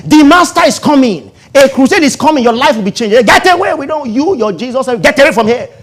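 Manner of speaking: loud, high town-crier proclamation; excited disciples announcing. Retold or imitated. Disciples telling the town Jesus is coming, shouting. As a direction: announce the master loudly to the whole town. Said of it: "they go to tell the whole town".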